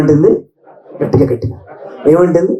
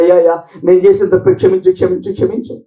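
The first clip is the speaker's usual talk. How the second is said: begging God, trailing into a whisper; weeping plea; 5 semitones lower than usual. Acted. David fasting and weeping, begging God to forgive, whispered plea. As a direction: plead for mercy, fading out. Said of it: "ఏడుస్తున్నాడు".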